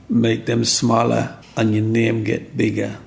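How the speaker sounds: a hint of his mother's Jamaican accent; slow, lightly imitated Jamaican accent. Mother advising her child, light Jamaican accent. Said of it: "in a Jamaican accent".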